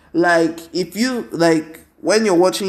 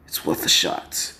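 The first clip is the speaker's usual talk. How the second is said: whisper; 12 semitones lower, 5 dB quieter than usual. Retold or imitated. Hero muttering to himself.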